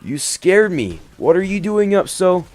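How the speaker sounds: high, breathless nervous laugh-talk; startled relief. Acted. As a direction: speak up, shaken but relieved.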